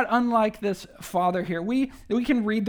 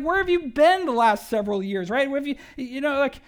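incredulous; 5 semitones higher than usual. Retold or imitated. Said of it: "almost like he's surprised, maybe incredulous even".

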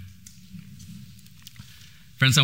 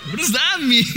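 surprised. Retold or imitated. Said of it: "I was like".

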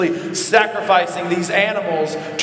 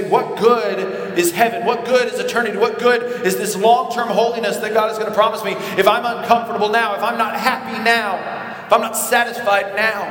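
whining complaint; 4 semitones higher than usual. Retold or imitated. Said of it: "and we say".

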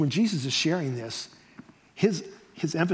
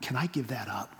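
low, soft, private question; hushed self-questioning; pondering to oneself; 7 semitones lower, 9 dB quieter than usual. Retold or imitated. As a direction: ask it quietly, as if weighing it up. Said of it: "and say".

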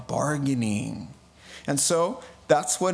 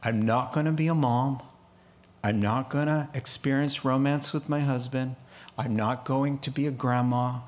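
grieving daughter; 3 semitones lower than usual. Retold or imitated. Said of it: "That means".

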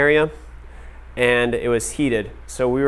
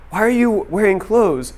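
much higher, drawn-out incredulous question; mock bafflement; 8 semitones higher than usual. Sauna host to clothed American guests, mock bafflement. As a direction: imitate a baffled host, pitch right up.

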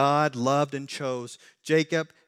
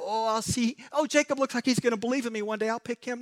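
mock God voice; 8 semitones higher than usual. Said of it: "God looked down and go".

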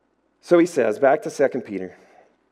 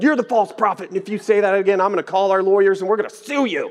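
mock yell, raised and louder; retold scream; 6 semitones higher, 3 dB louder, faster than usual. Supervisor yelling threats at the pastor on the phone, mock shout. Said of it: "he's, like, screaming in the phone".

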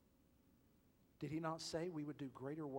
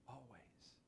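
Always, dropped to a hush; quiet, weighty Always; soft emphatic always; 12 dB quieter than usual. Shown as a demonstration. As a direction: hush the word Always, firm.

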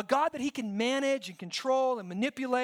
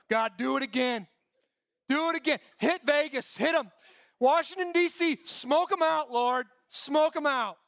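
louder, demanding plea for fire from heaven; mock righteous prayer, pushed louder; vengeful mock prayer; 4 dB louder than usual. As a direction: call down destruction like a zealot. Moralists praying for judgment.

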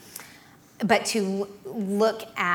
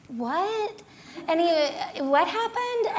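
mock baffled husband; 8 semitones higher, slower than usual. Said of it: "he was like".

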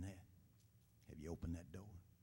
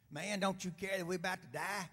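higher, louder panicked plea; frightened cry; 8 semitones higher, 6 dB louder than usual. A narrator's reading. Disciples waking Jesus in the storm, frightened cry. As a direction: cry out as men in a sinking boat. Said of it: "the disciples cried".

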